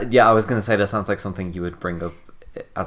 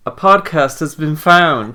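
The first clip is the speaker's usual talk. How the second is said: slow, raised, louder mock proclamation; mock dramatic announcement; 6 semitones higher, 8 dB louder, slower than usual. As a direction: announce it like a grim discovery, hammed-up. Mock dramatic discovery announcement as intro.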